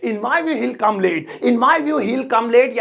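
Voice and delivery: slow, spaced English example; unhurried line for learners to repeat; slow teaching model. Shown as a demonstration. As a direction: model the sentence word by word. Teacher models the translated sentence.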